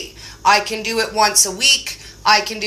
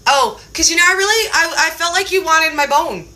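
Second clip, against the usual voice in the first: higher, hesitant dog voice; lightly voiced dog; 5 semitones higher than usual. Dog explains itself to owner, lightly voiced. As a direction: back off like a let-down dog. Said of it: "and my dog's like".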